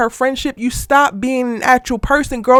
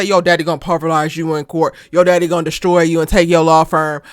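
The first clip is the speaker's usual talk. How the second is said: lower-pitched mimicked threat; mock threat; 6 semitones lower than usual. Mimicking the mistress threatening his daughter, mock menace. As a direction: drop the pitch to mimic someone's menacing warning.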